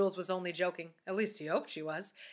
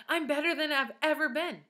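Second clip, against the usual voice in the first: higher, happy beaming delivery; 6 semitones higher, 3 dB louder than usual. A narrator's reading. Teacher telling pupils she is better than ever, beaming. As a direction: beam with pride as you share good news. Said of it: "she beamed".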